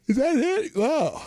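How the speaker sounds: high, loud disbelief; sudden jump up in pitch; surprised. Real, not acted. Few viewers in the stream.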